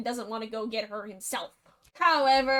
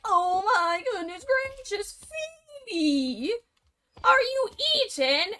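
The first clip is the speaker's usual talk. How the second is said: panicked cry; 8 semitones higher than usual. Acted. Mule finds slime instead of Phoebe.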